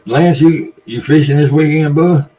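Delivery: calling out to a viewer. Real, not acted. Calls out to a viewer.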